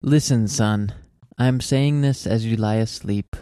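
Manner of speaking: measured, heartfelt reading of a poem. Acted. Host reading a poem to listeners, heartfelt.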